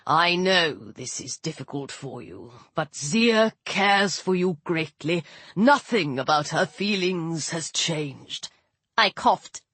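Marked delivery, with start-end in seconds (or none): 0.1-8.5 put-on old sun god voice. Ra speaks to Carter.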